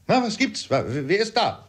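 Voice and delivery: called out high, stammering on waking; jolted awake, stumbling over the question; startled cry. A narrator's reading. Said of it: "rief mein Vater, der den Augenblick aufwachte".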